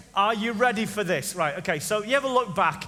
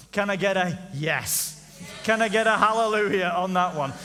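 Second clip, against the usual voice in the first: preacher call. Acted.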